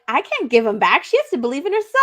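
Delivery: put-on snooty dismissal; bitchy. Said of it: "it was so bitchy how she's like".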